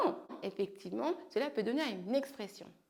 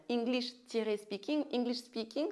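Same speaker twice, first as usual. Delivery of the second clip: stretched slowly for students; slow model word. Shown as a demonstration. Teacher modelling the compound slowly. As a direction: say each part slowly and clearly. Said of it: "English speaking people".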